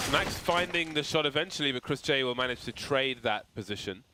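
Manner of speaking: brisk live play-by-play call; esports caster. Acted. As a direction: narrate each kill as it happens. Casting live match play-by-play.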